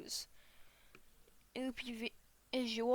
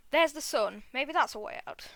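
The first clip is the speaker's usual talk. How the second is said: louder, livelier reading of the line; changed voice; 3 semitones higher, 5 dB louder than usual. Acted. Reader back from outside rereads the bee's line, changed louder voice. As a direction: read it out with more volume and lift. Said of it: "my voice has changed a bit".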